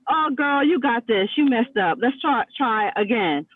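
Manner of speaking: gently encouraging, pitch easing down; a touch of patient reassurance to oneself; patient self-talk. Acted. Coach modelling self-talk after messing up, mildly patient. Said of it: "am I patient with myself?".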